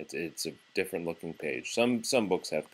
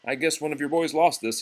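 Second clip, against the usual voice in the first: raised, higher call across the yard; 7 semitones higher, 6 dB louder than usual. Acted. Garbage man calling to Grandma across the porch, loud. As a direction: call it out from a distance. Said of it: "he called out".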